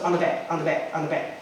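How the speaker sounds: "on the bed" run together as "on-duh-bed"; one linked chunk, "on the bed", repeated evenly; linked D sound. Shown as a demonstration. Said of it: "you pronounce it as a "d".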